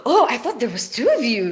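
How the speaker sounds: laughing as she retells the line; laughing through quote. Retold or imitated. Vlogger retelling a funny film line to viewers, giggling. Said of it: "the other guy was like".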